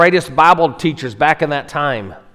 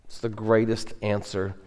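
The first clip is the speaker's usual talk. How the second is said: soft whisper of awe; hushed; 3 semitones lower, 10 dB quieter than usual. Real, not acted. Preacher building to the thief's answer, hushed whisper. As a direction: breathe it like a secret. Reverent climax before answer.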